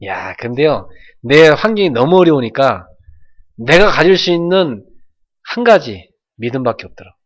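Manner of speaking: ordinary talk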